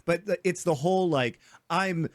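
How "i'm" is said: lightly put-on transatlantic rich drawl, slow; a hint of snooty East Coast old money transatlantic accent; slow, lightly hammed transatlantic accent; mock old money accent. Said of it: "that's that accent".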